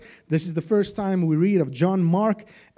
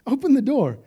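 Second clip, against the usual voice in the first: high, loud pretend scream at Rhoda; mock scream; 9 semitones higher, 5 dB louder than usual. Audience screaming at Rhoda on screen, high loud yell. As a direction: scream at her to open the door. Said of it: "we would probably be screaming at her".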